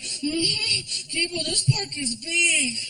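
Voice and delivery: put-on high, slow, out-of-breath boy; winded kid. Winded stepson complaining about the big park, high slow tired voice. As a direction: drag it out tired and puffing. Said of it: "I go".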